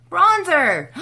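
high, loud burst of delight; sudden delighted cry; excited exclaim. Real, not acted. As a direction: shout it out like you found treasure. Excited discovery of bronzer.

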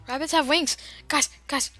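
playful proclaiming; mock excitement. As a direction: hype up a silly discovery. Excited fake discovery announcement.

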